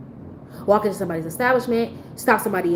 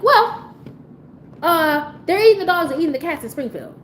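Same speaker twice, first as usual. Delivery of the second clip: mocking Trump's answer; 7 semitones higher than usual. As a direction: jeer at the dodge in a raised voice. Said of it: "this person was just like".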